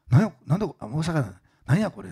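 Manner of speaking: baffled boss. Retold or imitated. Osaka president staring at the resignation letter, baffled. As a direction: react like a confused boss who has just been handed a letter.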